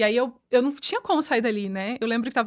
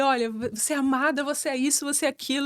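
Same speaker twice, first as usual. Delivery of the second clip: mildly indignant insistence, pitch raised; indignação recontada; 3 semitones higher than usual. Retold or imitated. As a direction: retell a firm, worked-up declaration without shouting. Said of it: "levantei muito indignada". (indignação leve, insistente, em tom mais agudo)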